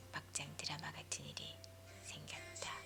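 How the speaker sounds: usual speaking voice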